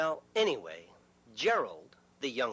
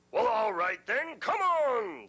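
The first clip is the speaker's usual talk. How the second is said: louder, challenging; defiant big goat; 6 semitones higher, 4 dB louder than usual. Acted. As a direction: dare him to come on. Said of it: "said George".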